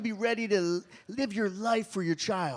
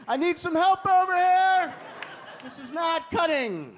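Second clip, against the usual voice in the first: put-on whiny kid; 8 semitones higher than usual. Kid struggling with scissors.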